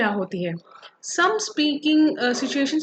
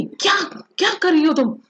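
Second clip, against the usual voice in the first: sharp upset demo shout, higher and louder; 4 semitones higher, 4 dB louder than usual. Shown as a demonstration. Teacher shows students how an upset shout sounds. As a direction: snap the question like you're really upset. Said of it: "अगर मैं shout करूँगी".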